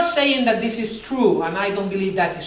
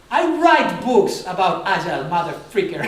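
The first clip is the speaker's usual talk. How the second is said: mock indignant retort; 3 semitones lower than usual. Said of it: "I was all emotional".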